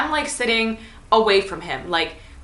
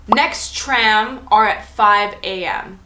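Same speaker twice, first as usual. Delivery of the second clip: slow mock text read; slower than usual. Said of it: "he says".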